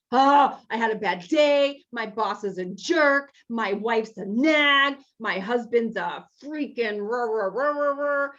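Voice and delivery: a loud burst of griping, then babbling rah rah; mock venting rant. A member griping about a jerk boss and nagging spouse, mock venting rant. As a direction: play-act a fed-up complainer letting it all out.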